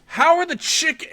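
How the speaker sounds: high question broken off at "chick-"; imitated question, abruptly cut short at "chick-"; cut off mid-word. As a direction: pitch it up, then stop dead on "chick-". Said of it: "and then she stops talking".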